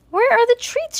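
high, loud questioning; wondering. A narrator's reading. Mercy wondering about her treats, high-voiced. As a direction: ask it high, as a hungry pig. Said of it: "she wondered".

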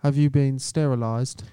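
lightly put-on English accent; clipped-sounding English guest. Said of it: "I went real English".

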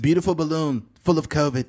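mock presidential bullet points; Donald Trump. President describing the balloon, Trump impression. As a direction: deliver it as a choppy pronouncement. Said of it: "Donald Trump s-, talks in, like, bullet points".

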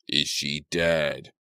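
slow, frightened question from the crowd; a scared voice breaking in; frightened kid. Acted. Frightened kid in the crowd asks, slow and scared.

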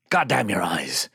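slow mock curse; lightly theatrical old-actor oath; Callan. Quoting a friend's catchphrase, drawn-out mock oath. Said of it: "what does Callan always say?".

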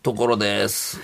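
lightly voiced celebrity impression; a rough, modest mimicry of a TV star's greeting; Tokoro-san. Comedian replays the star's voice mail, rough impression. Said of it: "もうモノマネが、まあ、あれやけどな".

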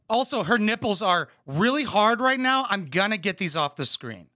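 ordinary talk

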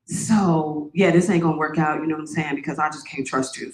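put-on low offhand boyfriend voice; imitating her ex. Boyfriend breaking up, low mock offhand voice. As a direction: lightly mimic the dismissive man. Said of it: "he literally said to me".

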